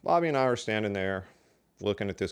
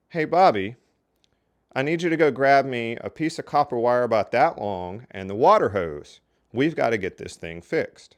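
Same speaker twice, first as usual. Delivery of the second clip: calling out loudly; 2 semitones higher, 7 dB louder than usual. Retold or imitated. Worker calls loudly to Bobby to prank the new manager. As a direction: holler to your coworker so the passing manager hears.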